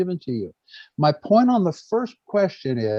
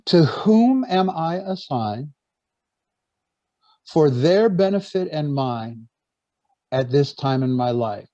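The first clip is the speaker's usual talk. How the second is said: slow and measured, pausing between phrases; slow repetition. Shown as a demonstration. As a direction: repeat it slowly so everyone can follow. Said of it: "I'll say it slowly so everyone can get it".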